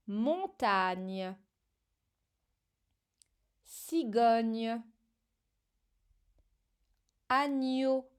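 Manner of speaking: "Montagne", "Cigogne", "Agneau" read one word at a time, with a long pause after each; dictation reading. Shown as a demonstration. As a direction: dictate "Montagne", "Cigogne", "Agneau" carefully so a child can write them. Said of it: "C'est parti".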